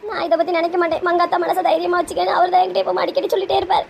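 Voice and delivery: weepy, rising toward a wail; acted crying over an old love; tearful lament. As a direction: pour out heartbreak, close to sobbing. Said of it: "ஏம்மா, அழாதுங்கம்மா".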